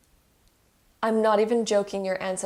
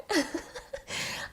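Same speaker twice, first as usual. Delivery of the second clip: teary breathy laugh; 10 semitones higher, 5 dB quieter than usual. Real, not acted. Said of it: "this is making me cry".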